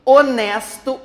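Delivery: HONESTO with a clearly punched NES; stress on NES. Shown as a demonstration. Teacher contrasting it with honestamente, HONESTO stressed on NES. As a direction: push the middle syllable NES in HONESTO. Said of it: "o nes".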